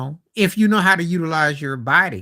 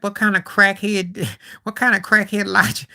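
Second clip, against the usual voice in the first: higher, louder, laughing through the words; laughing disbelief; 7 semitones higher, 3 dB louder than usual. Retold or imitated. Mocking a coach's logic, laughing in disbelief. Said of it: "I'm like".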